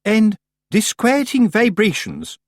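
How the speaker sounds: high, slow and solemn; haughty Missus Earwig. A narrator's reading. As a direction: weigh each word gravely.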